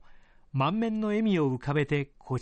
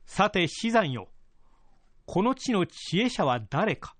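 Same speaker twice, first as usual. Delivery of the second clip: higher, measured lordly voice; feudal lord voice; 5 semitones higher than usual. Acted. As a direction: speak as a pleased old lord. Lord questions retainer.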